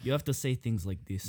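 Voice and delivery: low, Russian-sounding accent; put-on accent. Shown as a demonstration. Showing friend Italian, landing on Russian accent. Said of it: "That's Russian".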